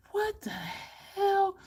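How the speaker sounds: slow, drawn-out, high amazed; stunned disbelief. Retold or imitated. Vlogger recalling her surprise at easy looks, slow high amazement. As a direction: stretch it out, floored.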